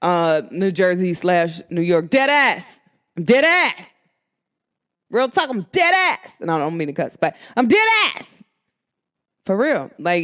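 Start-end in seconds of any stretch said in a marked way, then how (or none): 2.1-2.8 New York "dead ass", flat and punchy; New York accent. Shown as a demonstration. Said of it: "when I say that in my New York accent". 3.2-8.4 New Jersey-New York slang delivery; New York accent. Shown as a demonstration. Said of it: "when I say that in my New York accent".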